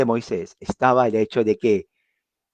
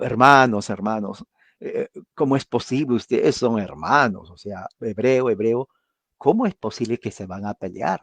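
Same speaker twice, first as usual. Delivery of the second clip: fraternal tone. Retold or imitated. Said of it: "en un tono más fraternal".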